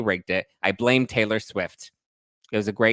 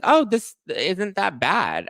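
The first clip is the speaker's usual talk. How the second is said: high surprised; 9 semitones higher, much slower than usual. Retold or imitated. Mock surprised approval.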